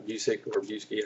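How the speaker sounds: Busiek as "BYOO-sik", then Busiek as "BYOO-skee"; two tries at pronunciation. Real, not acted. Reviewer unsure of the writer's name, Busiek said two different ways. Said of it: "however you pronounce it".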